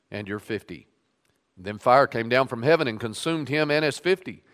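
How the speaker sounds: measured public Bible reading; scripture reading. Acted. Pastor reading Kings to his standing congregation, measured reading voice. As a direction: read the passage aloud to the congregation.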